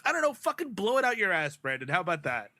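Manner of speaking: mock retort. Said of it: "I'm like".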